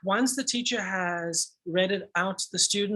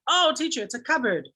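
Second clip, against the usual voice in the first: eager pupil; 6 semitones higher than usual. Retold or imitated. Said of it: "the first student who then shouts out".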